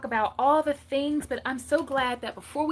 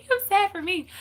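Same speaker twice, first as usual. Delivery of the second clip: mock self-pity; 9 semitones higher, 5 dB louder than usual. Mock self-pity about small plate.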